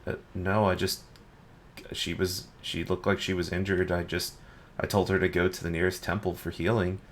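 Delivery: soft, halting, a little embarrassed; sheepish, embarrassed. Acted. Guard explaining himself to his angry superior, sheepish. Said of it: "looks kind of sheepish and a little embarrassed".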